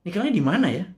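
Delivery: lightly voiced grandchild, high and curious; grandchild asking. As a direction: ask grandma innocently like a little grandchild. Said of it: "Jangan sampai anak cucu kita bilang". (suara cucu yang polos, sedikit lebih tinggi)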